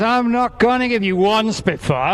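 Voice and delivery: sing-song market hollering. Pretend. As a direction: build it up like a stall holler. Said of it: "I'm gonna sound like a market trader now".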